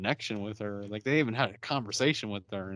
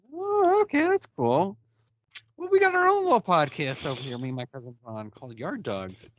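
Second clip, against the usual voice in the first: imitating Lucian; 3 semitones higher, 4 dB louder than usual.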